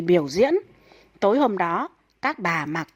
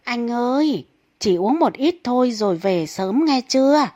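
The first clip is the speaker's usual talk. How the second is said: wife calling after husband leaving to drink; calling after him; 4 semitones higher than usual. Acted. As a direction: shout the reminder after a departing husband. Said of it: "chị vợ liền dặn với theo".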